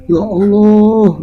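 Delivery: slow high wail; crying. A narrator's reading. Sarina hearing of the death, slow high lament. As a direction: stretch it out as if weeping. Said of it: "nangis semakin bercucuran".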